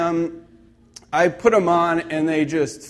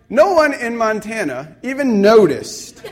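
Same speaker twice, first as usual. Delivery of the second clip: raised, louder mock incredulity; retold disbelief; 5 semitones higher, 5 dB louder than usual. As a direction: play up the disbelief for laughs. Retold disbelief at unnoticed pants.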